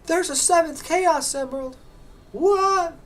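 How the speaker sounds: squeaky cartoon sidekick. Voicing game characters' dialogue.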